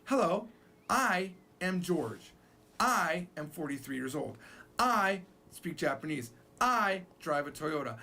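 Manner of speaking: slow, stressing each "I"; repetitive English self-introduction. Shown as a demonstration. Teacher shows how English speakers repeat "I". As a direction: plod through each "I" sentence. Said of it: "We say".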